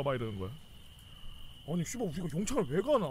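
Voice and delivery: ordinary talk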